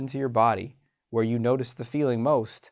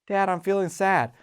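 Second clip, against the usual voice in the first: put-on small child voice; 6 semitones higher than usual. Kid tells parent feelings.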